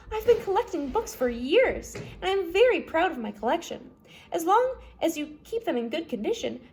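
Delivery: a light voicing of a proud collector; Justice Strauss voice. Judge shows the children her library.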